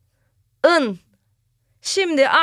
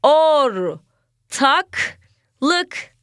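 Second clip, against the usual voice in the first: whispered. Shown as a demonstration. Teacher whispers the word to the children as a game. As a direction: whisper Ortaklık to the class.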